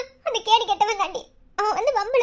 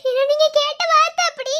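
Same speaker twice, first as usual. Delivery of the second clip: higher, hurt retort; hurt reproach; 6 semitones higher, 4 dB louder than usual. Acted. Girl answering warden's insulting remark, hurt reproach. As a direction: let the hurt rise in pitch.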